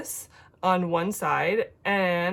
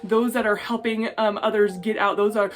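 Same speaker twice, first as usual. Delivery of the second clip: earnest spoken prayer, softening at the close; sincere intercession; heartfelt prayer. Real, not acted. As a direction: pray aloud to God for the people. Prays aloud for Afghanistan.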